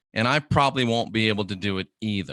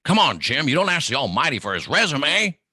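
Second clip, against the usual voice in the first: lightly voiced gruff doctor, a bit higher; a hint of McCoy scolding Kirk; McCoy impression; 4 semitones higher than usual. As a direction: brush it off like McCoy. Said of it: "And McCoy's like".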